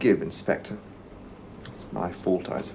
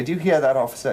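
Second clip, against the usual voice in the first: indignant call; 4 semitones higher, 5 dB louder, faster than usual. Acted. Indignant appeal to officer.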